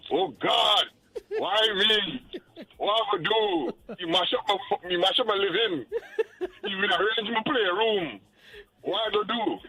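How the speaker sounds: hammed-up despairing man; mock lament. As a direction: wail it like a heartbroken man. Voicing the distraught boyfriend.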